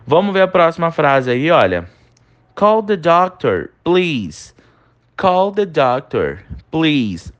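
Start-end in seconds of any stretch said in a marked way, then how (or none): 2.5-7.3 gentle polite request. Shown as a demonstration. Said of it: "que torna mais suavizado".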